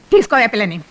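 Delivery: normal talking voice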